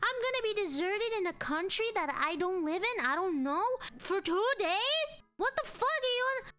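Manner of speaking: high, indignant wail of disbelief; tearful outburst. Retold or imitated. Stranded passenger to airline agent, tearful outburst. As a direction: cry out in outraged panic, pitch climbing. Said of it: "I was crying".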